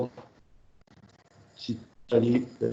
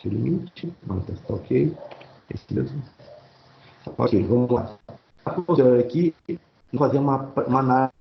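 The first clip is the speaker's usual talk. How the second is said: glitching audio. Real, not acted. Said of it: "o áudio tá cortando".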